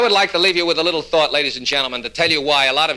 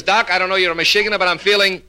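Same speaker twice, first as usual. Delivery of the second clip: raised voice halting at the finish; stuttering patient; 4 semitones higher than usual. Acted. Patient updates his psychiatrist, with halting stutter. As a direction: run on, then block before "much". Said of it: "a little impediment in his speech".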